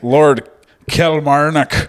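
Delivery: drawn-out name with an Irish lilt; Irish accent. Real, not acted. Podcaster naming the executed lord, Irish accent. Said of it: "I just put an Irish accent on it".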